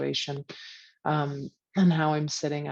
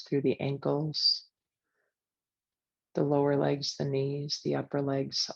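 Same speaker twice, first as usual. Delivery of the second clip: guided meditation. Acted. Leads a guided visualization.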